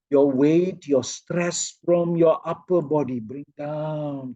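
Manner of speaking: measured cue sinking to a hush; demonstrated guidance. Shown as a demonstration. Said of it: "Can you see how I'm doing it?".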